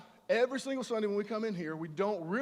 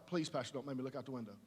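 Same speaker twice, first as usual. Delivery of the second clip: pleading introvert; 7 semitones lower, 7 dB quieter, faster than usual. Retold or imitated. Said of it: "And they're like".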